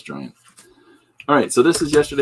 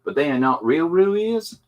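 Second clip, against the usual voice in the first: put-on higher-pitched grade-school kid's voice; put-on child voice, pitched up; kid reading aloud; 5 semitones higher than usual. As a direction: read it out like a little boy's book report. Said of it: "trying to capture that voice of a kid".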